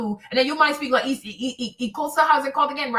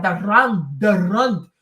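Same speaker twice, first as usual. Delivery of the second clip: the Rand with a hard, rolled Afrikaans R; Afrikaans accent; 7 semitones lower, 4 dB louder, slower than usual. Shown as a demonstration. Mimicking how Afrikaans speakers say the Rand, lower Afrikaans accent. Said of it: "That's why they speak like that".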